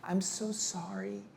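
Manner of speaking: hushed, apologetic little whisper; sheepish whispered sorry; timid whisper. Retold or imitated. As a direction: whisper the apology like a nervous client. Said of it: "and they're like".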